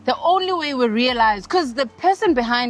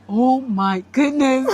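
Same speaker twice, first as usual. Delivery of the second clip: startled; 3 semitones higher, slower than usual. Retold or imitated. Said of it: "And we're like".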